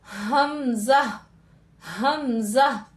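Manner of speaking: teacher drawing out हमजा for students; slow throat demo. Shown as a demonstration. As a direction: drag out हमजा so the throat vibration shows. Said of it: "यहाँ पर vibration होगी".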